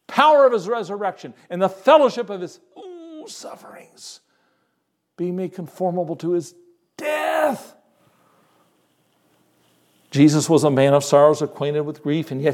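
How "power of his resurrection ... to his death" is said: preacher moved while quoting Paul's sufferings; choked up. Real, not acted. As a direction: voice cracks into a tearful, near-silent whisper, then bursts out on the last word. Preacher overcome reading scripture.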